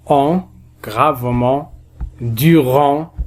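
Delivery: "gravement", "durant" slowly, final nasal vowel held; drawn-out nasal sound. Shown as a demonstration. Teacher demonstrating the pronunciation, "gravement" and "durant" with long endings. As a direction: hold the "en" sound in each word. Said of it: "on le prononce".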